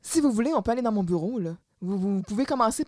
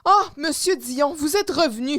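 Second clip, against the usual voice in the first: acted delighted greeting; 3 semitones higher than usual. Jocelyne greets returning Dion in retelling.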